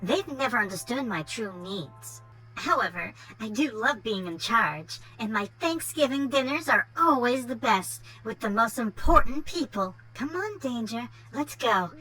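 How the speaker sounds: put-on spoiled Valley Girl brat; Valley Girl accent. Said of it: "Valley Girl accent going".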